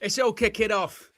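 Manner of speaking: high, excited call; excited exclaim. Real, not acted. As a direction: announce the chaos with excitement. Chaos erupting at home.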